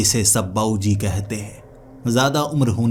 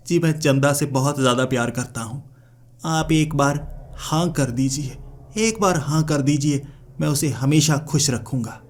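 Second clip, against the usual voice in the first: slightly higher, imploring appeal; earnest pleading; 4 semitones higher than usual. Acted. Suitor begs the elder for consent, earnest pleading. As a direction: plead for a yes, stretching the request.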